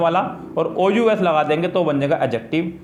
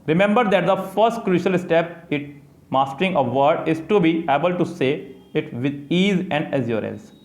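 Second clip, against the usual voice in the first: slow careful reading; much slower than usual. Acted. Teacher reading textbook instructions to students, slow careful reading. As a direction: read it out slowly, word by word, like a textbook.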